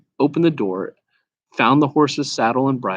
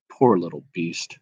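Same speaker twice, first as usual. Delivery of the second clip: gentler tone; 5 semitones lower, 3 dB quieter than usual. Acted. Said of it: "said the horse in a gentler tone".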